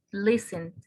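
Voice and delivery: Listen with the beat on LIS; teacher demonstrating Listen, front syllable stressed; stress on first syllable. Shown as a demonstration. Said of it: "en la primera".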